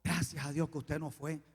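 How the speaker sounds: low, soft retold weeping relief; mock tearful. Man weeping to his pastor, lightly imitated tearful voice. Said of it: "El hombre comenzó a llorar y me dijo".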